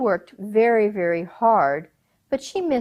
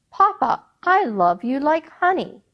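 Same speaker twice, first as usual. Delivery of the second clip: sweet daughter; 7 semitones higher, 5 dB louder than usual. Acted. Daughter flattering her father.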